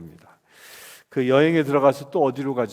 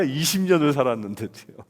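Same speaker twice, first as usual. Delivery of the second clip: usual speaking voice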